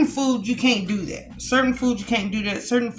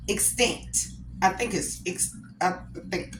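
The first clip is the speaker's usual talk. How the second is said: unsure whisper to herself; 4 semitones lower, 8 dB quieter than usual. Real, not acted. Vlogger doubting the movie title, quiet whisper to herself. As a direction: murmur the word, checking it privately.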